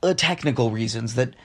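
a hint of a morning radio host putting on a goofy voice; silly little voice. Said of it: "Why are you talking like that?".

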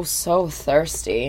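parched whine. Pretend. Acting out thirst.

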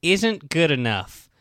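slow, mocking quote; mock quoting. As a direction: drag out the quote.

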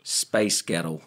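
Scottish demo of the rhythm; Glaswegian "Space Ghetto". Shown as a demonstration. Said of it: "that roll in the Glaswegian".

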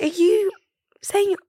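mock outrage at a friend's cheeky remark; agitated disbelief. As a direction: demand it like you can't believe your ears. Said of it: "I'm getting agitated".

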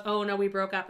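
lightly put-on European accent; imitated Bruno accent. Store owner answering about his wife, imitated European accent. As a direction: do a loose impression of a European accent. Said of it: "I'm doing the Bruno accent".

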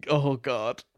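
a hint of a New York accent, hammed-up; bad New York accent. Reading a listener's letter in a bad New York accent. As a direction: read it in a half-hearted New York accent. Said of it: "they're a New Yorker, but I can't do the accent".

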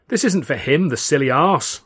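mildly exasperated, throwing up hands; a touch of exasperation. Acted. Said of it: "I said, exasperated".

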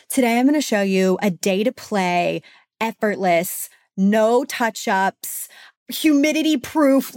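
hyped parody of a beauty ad; infomercial voice. Pretend. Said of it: "my own parody version".

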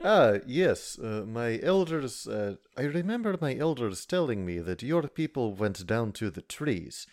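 measured giant recalling his elders; slow down on the memory, in character; Condemned. Acted. Condemned recalls elders' tales to fellow giant, slow and measured.

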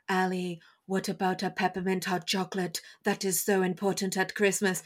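flat earnest angel voice; deadpan robot voice; serious robot voice. Retold or imitated. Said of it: "But he's very serious".

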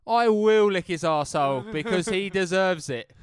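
loud slow emphatic declaration. Real, not acted. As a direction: declare it with full conviction.

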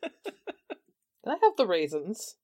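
very slow, laughing creature ask; slow laughing request. Acted. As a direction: drag it out through a laugh. The speaker's odd character ask.

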